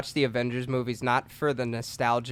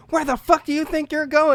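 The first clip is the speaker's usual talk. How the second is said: higher, louder confrontation; mock angry shout; 13 semitones higher, 5 dB louder than usual. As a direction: challenge him, hammed up. Guy confronting character.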